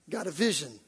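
ordinary delivery

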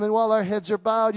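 ordinary talk

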